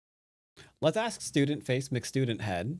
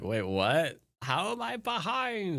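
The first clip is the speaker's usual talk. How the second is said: retold panic, leaping much higher; alarmed disbelief; 7 semitones higher than usual. Player retelling a scare at being behind, alarmed disbelief. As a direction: replay your startled reaction, pitch shooting up.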